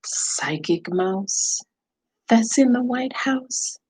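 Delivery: slow, drawn-out mystical chant; Psychic Mouse voice. Pretend. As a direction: call on the mouse like a medium. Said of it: "you want me to talk like Psychic Mouse?".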